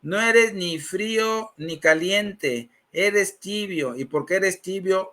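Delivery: slow, weighted pronouncement; lightly imitated priest, spacing out each phrase; priest delivering God's message. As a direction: pronounce it slowly, as a solemn verdict. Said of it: "El Señor te dice esto".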